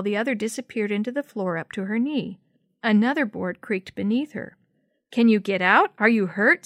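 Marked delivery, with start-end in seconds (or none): 5.1-6.6 louder, carrying across the porch; yelled back. Acted. Sammy checking on trapped Jenny from afar, worried yell. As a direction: call out with worry. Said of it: "Sammy yelled back".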